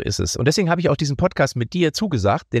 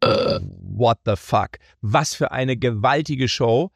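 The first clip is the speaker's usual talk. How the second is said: stunned awe; 4 semitones lower, much slower than usual. Retold or imitated. Awed by a singer's show.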